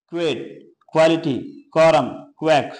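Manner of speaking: "क्वेट", "क्वालिटी", "कॉरम", "क्वैक" each opened with a kw sound. Shown as a demonstration. Teacher showing learners that QU in "क्वालिटी" is said kw. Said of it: "उसका उच्चारण क्वे करते हैं".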